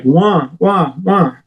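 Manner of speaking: "wah" noises mimicking an indistinct voice; repeated wah, pitch rising after the first; imitated muffled yelling. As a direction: mimic someone heard through headphones as wordless wahs. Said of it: "all of a sudden I hear this".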